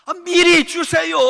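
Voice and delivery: ordinary delivery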